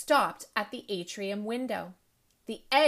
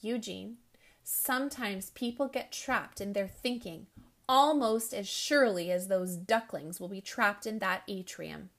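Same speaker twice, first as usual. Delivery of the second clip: thoughtfully. Acted. Principal gently reflecting to the troubled boy, thoughtful. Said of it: "Mister Lincoln said thoughtfully".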